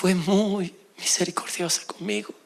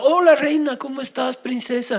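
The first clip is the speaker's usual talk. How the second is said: flirty greeting; 4 semitones higher than usual. Retold or imitated. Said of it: "les dije".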